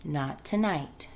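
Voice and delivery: soft, slow and tired; a low voice too tired to go on. Acted. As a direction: say it low, worn out, barely wanting to talk. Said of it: "she said in a low voice".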